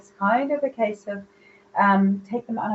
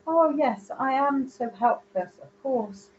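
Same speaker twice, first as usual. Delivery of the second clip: a lightly voiced helpless woman, pitched up at the start; mock helpless female; 5 semitones higher, slower than usual. Mimicking the aunt playing helpless, a mild mock-helpless sigh. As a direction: play the fragile lady who wants help. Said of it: "you can be the hapless female".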